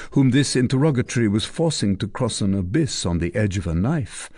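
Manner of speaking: usual speaking voice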